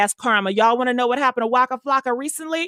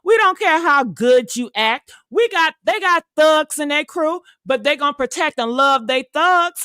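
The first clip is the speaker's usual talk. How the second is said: snobby rejection; 3 dB louder than usual. Retold or imitated. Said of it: "And what the white people say".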